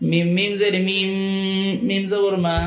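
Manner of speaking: slow, measured chant with long-held vowels; Qaida spelling recitation. Shown as a demonstration. Teacher models Qaida words for learners, slow measured recitation. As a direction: spell out letter by letter, then draw out the joined word.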